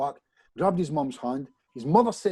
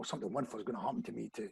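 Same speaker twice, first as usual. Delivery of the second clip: fast, much softer mumbled affirmation; embarrassed mumble; 4 semitones lower, 11 dB quieter, much faster than usual. Retold or imitated. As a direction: mumble it so nobody hears. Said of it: "Don't, don't, you know".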